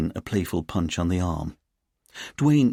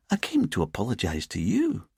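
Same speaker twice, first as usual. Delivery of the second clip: put-on lilting Edinburgh accent; 3 semitones higher than usual. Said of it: "in her lilting Edinburgh accent".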